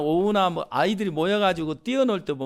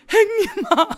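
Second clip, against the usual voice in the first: brotherly call; 14 semitones higher, 6 dB louder, slower than usual. Acted. Younger brother greets elder.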